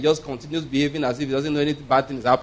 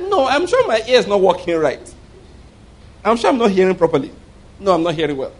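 raised, insistent mock protest; insistent disbelief; 4 semitones higher, 4 dB louder than usual. Retold man doubting his hearing before the Lord, insistent protest. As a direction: protest as if your ears must be faulty.

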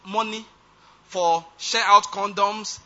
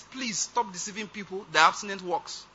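imitating a calm, softer plea; lightly voiced calm appeal, much softer; 4 dB quieter than usual. A singer on TV calmly pleading, calm and soft. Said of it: "he stays very calmly".

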